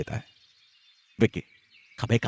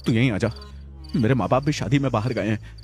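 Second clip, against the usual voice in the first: scared and trembling, pitched higher; 3 semitones higher than usual. Acted. Vikki alone at night begs his friend on the phone, trembling. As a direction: voice shaking as the fear rises. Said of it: "कमकपाती आवाज में".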